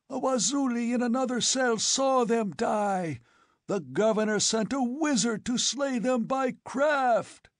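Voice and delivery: furious ranting. A narrator's reading. Old chief ranting at Conan.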